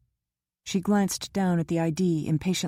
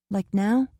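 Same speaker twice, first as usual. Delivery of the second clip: hopeful question; 4 semitones higher, 4 dB louder than usual. A narrator's reading. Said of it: "She gazed at him".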